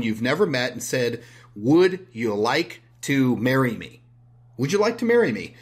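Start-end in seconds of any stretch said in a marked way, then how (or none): 1.5-4.0 slow, deliberate marriage proposal; mock proposal. To a stranger he never met, slow mock proposal. 4.6-5.5 higher, louder, pleading repeat; desperate mock proposal. Repeating the proposal to a stranger, high desperate plea.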